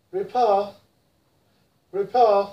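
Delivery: British repair, no r at the end; British accent. Shown as a demonstration. Teacher models British repair: British accent. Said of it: "In British".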